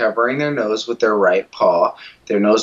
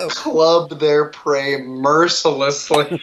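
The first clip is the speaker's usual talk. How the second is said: slow, laughing; 2 semitones higher, slower than usual. Real, not acted. Repeats the line, savouring it.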